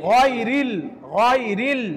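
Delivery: গয়রিল with a thick, heavy gh. Shown as a demonstration. Teacher models the heavy letter in গয়রিল. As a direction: give গয়রিল a full heavy start. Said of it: "মোটা করে পড়তে হয়".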